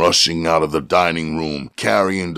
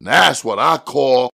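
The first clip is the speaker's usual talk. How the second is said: gloating; 14 semitones higher than usual. A narrator's reading. Jimmy gloating.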